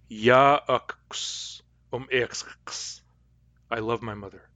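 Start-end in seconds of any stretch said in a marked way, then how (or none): 0.1-3.0 very slow Cayuga dialect ya akuks um iksks; drawn-out Cayuga dialect model sentence; slow careful Cayuga dialect. Shown as a demonstration. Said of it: "In Cayuga dialect".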